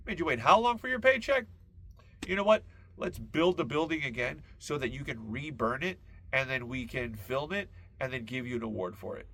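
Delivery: imitating a judge. Comic judge ruling for the unpaid worker, mock outraged. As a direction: play the outraged judge siding with you. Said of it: "The judge would be like".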